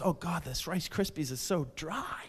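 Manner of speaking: hammed-up gloom over breakfast; bummed out. Depressed person complaining over dry cereal, mock-miserable. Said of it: "people who are all bummed out, really depressed".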